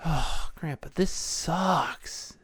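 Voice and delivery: put-on a slow, sulky kid voice complaining to his grandpa; sulky grandson. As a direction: drag it out like a bored kid.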